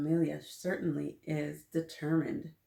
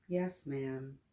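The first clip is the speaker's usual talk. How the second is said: sighing; 3 semitones lower, 5 dB quieter than usual. Acted. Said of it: "I sigh and say".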